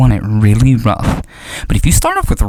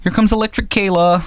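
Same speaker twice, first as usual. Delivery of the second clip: mocking schoolmates; 7 semitones higher than usual. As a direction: imitate kids taunting in a raised voice. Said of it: "They would be like".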